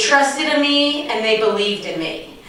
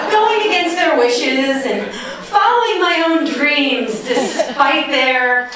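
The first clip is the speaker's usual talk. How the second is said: laughing; slower than usual. Real, not acted. Laughing while thanking her parents.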